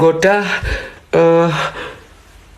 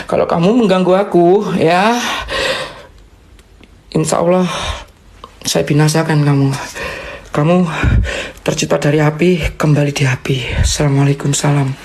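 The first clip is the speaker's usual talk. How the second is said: low-pitched, firm incantation; stern exorcist's warning; 4 semitones lower than usual. Real, not acted. Warning a spirit to return to fire, stern low voice. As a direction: command the spirit in a lowered voice. Warns spirit, then recites salam to banish.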